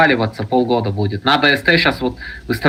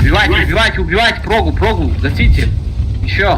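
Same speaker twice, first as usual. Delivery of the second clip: high urgent yelling; urgent shouting; 8 semitones higher than usual. Real, not acted. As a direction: yell at the team to attack. Urging team to attack.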